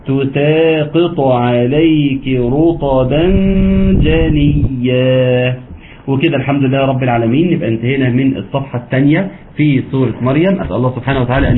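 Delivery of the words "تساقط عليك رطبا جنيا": slow drawn-out tajweed chant; Quran recitation. Shown as a demonstration. Teacher reciting Sura Maryam to students, slow chanted recitation. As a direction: recite slowly, stretching the vowels. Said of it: "الله يفتح عليك أختنا".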